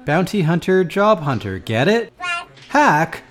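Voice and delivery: loud, indignant boss shouting; loud rant. Pretend. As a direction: bark at them like an outraged boss. Mock angry boss rant.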